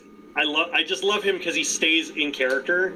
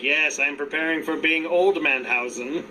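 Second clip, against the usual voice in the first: lightly voiced creepy villain; deadpan spooky self-mockery; Danhausen voice; 2 semitones lower than usual. Quoting Danhausen joking from his wheelchair, lightly creepy. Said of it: "he's like".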